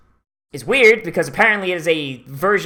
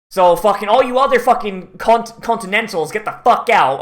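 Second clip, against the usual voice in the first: mock outrage; 4 semitones higher, 4 dB louder than usual. Mock rant at continentals.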